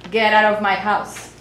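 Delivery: loud, level dismissal; mean it, loud and without singsong; firm order to leave. Acted. Father throwing the neighbor out of the house, loud and firm.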